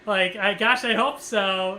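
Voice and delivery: half-laughing, forced joke to hide nerves; nervous joking laugh. Retold or imitated. Patient joking with the surgical team, nervous laughing. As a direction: laugh it off with a nervous chuckle, drawn out slow. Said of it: "I was trying to be funny".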